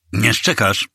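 short hissed retort with a mild edge; understated menacing hiss; hissed warning. A narrator's reading. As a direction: hiss it lightly as a threat. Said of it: "syknął".

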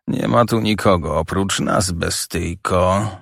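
slow, menacing growl; mild menacing growl. Acted. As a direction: drag out bestyjko like a threat. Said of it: "zawarczałem".

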